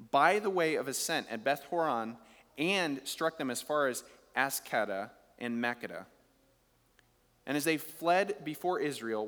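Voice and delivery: measured reading of the Bible passage; preacher reading scripture to the congregation. Acted. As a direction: read the verses out steadily. Reads scripture passage aloud.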